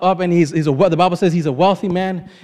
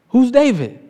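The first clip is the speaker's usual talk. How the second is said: mocking dismissal; 5 semitones higher than usual. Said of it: "basically what he says".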